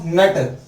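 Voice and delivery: नट with a held n into a full t; नट as a half n and a whole t; "nt" sound demo. Shown as a demonstration. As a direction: hum briefly on the n of नट, then release the t. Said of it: "एन टी का sound याद कर लो".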